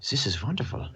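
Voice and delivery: hushed mock German accent; Air Dobbins. Game master as Air Dobbins taking in being back, hushed German accent. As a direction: drop to a near-whisper in a German accent. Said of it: "German fucking".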